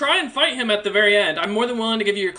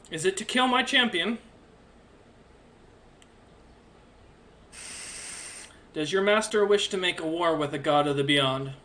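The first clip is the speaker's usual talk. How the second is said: stern divine being; 3 semitones lower, 3 dB quieter than usual. Acted. GM voices the divine stranger.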